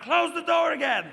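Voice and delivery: high, loud, strained mock wail; hammed-up girlfriend shriek; revised girlfriend yell. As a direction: wail the order with a laugh in it. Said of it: "or more like".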